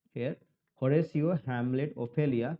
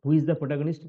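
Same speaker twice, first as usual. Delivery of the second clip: louder, pressing the class for an answer; louder question to class; 6 dB louder, faster than usual. Real, not acted. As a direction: call it out to the students. Teacher presses students for answer.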